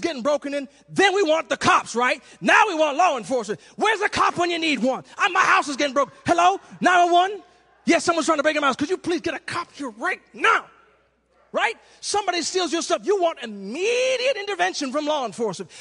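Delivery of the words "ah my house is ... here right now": loud, urgent 911 call; hammed-up frantic plea for a cop; mock panic call. Preacher acting a homeowner calling 911 in mock panic.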